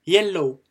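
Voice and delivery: "Yellow" called out loud; teacher's clear model. Shown as a demonstration. A teacher models the word yellow loudly for learners. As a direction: announce "Yellow" clearly to the class. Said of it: "si vous avez l'habitude".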